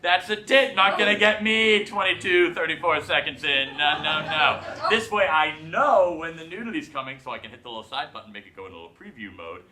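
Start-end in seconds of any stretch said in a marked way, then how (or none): 0.0-4.6 mock excited spotting. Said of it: "sitting there going".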